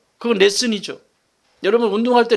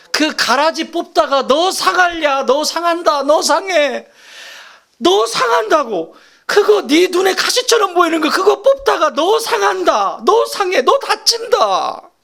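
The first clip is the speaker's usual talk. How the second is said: higher, louder, slow pleading of a worried father; 7 semitones higher, 3 dB louder, slower than usual. Acted. God as father warning his child, pleading higher and louder. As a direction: beg the child not to get hurt. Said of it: "이게 지금 아버지의 마음이라고요".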